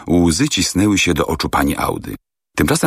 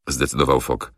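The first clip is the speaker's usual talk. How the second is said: ordinary delivery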